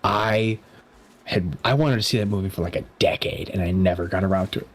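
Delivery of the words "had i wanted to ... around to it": talking through the hiccups; words broken by hiccups. Real, not acted. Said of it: "Excuse me, I got the hiccups".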